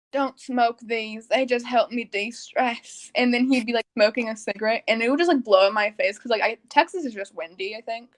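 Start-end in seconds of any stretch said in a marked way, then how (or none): 0.1-3.1 slow, lightly voiced dad; measured fatherly warning, quoted; imitated dad. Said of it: "and he'd be like".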